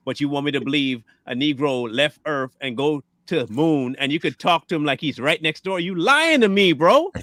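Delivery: building to a loud accusation; incredulous rant. Real, not acted. Ranting about the moon landing.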